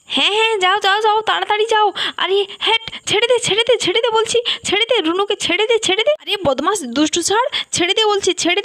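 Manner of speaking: high-pitched urgent orders; urgent pleading command. Acted. Villager orders the bull to release Runu, urgent.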